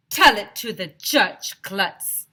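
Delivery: tough cop. A narrator's reading. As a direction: shut him down flatly. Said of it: "the first policeman said".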